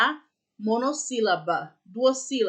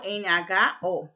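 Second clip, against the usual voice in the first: spelling out slowly; 3 semitones lower, much slower than usual. Shown as a demonstration. Spelling out a word ending.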